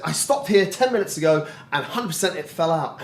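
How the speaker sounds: mildly panicked retelling; a touch of mock alarm; retold freak-out. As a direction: imitate someone urgently pleading their case. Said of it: "he's freaking out".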